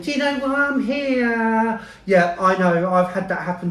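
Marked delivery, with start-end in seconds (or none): 0.0-1.8 mock condescending tone, slow and high. Quoting what a woman said to them, in a mock-patronising tone. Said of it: "did she say it really patronisingly? Like".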